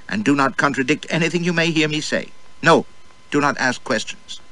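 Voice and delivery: wife drilling her husband before going out; drill sergeant. Acted. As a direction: bark out orders like a little sergeant. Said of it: "rapped it all out like a tiny drill sergeant".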